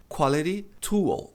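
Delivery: QUALITY TOOL slowly, ending "too-ul"; correct English pronunciation. Shown as a demonstration. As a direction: say "quality tool" with a clear final L. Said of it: "pronunciar esse L no final".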